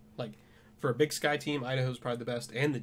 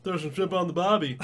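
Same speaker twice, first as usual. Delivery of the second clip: higher, louder hammed-up Australian accent; mock Australian accent; 6 semitones higher, 8 dB louder than usual. Shown as a demonstration. Cohost joking along with a bad Australian accent. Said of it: "Oh, wait. That's just a territory".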